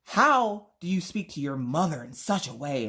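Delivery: mock-offended period matriarch; old-fashioned melodrama. Offended mother to her son, old-fashioned melodrama. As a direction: scold with antique theatrical indignation. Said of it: "talking like you're from the nineteen hundreds".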